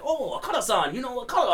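high-pitched excited fan voice; excited high girl voice. Retold or imitated. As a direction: squeal it like an amazed fan. Japanese girls quoted, amazed.

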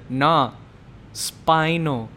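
lightly imitated boxer, drawn-out last word; Mike Tyson. Boxer answers an interviewer about his back, light impression. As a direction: land one word slowly as a punchline impression. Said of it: "Mike Tyson says this".

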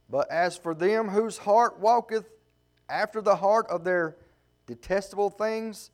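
measured, rising preacher's scripture reading; a preacher reading Ezekiel aloud. Acted. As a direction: proclaim the verses to the congregation. Reads last verse.

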